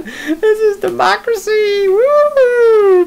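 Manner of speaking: high, slow laughing cheer ending in a whoop; mock cheer. Real, not acted. Host mocking democracy, high laughing whoop. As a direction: cheer it sarcastically through laughter.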